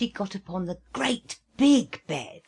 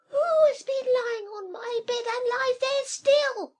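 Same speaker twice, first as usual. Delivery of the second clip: very high, loud, amazed squeal; a tiny bear gasping in surprise; teeny tiny astonished voice; 6 dB louder than usual. Acted. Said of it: "in a teeny tiny voice of astonishment".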